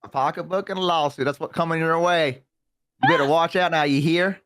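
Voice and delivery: hammed-up Southern twang; playful Southern warning; Southern accent. Joking with co-host about a lawsuit coming, hammed Southern accent. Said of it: "I'm from the South".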